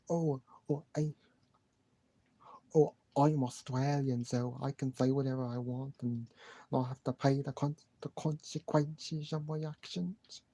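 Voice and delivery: a sneering Australian brag, slowing at the end; mock Australian accent. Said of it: "trying to do my best Australian accent while also trying to do my best Moxley impersonation".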